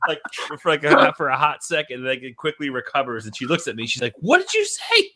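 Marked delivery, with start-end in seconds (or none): 4.2-5.1 very high, breaking into laughter; mom trying not to laugh. Retold or imitated. Mom to son, high voice cracking with laughter. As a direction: ask it while holding back a laugh.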